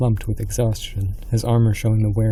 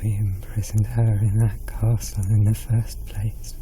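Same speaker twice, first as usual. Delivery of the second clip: tight with panic. Acted. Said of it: "Her voice was tight with panic".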